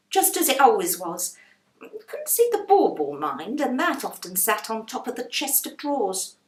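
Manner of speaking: pointing the way up the stairs; a hint of a busy landlady; chatty landlady. Landlady gives directions.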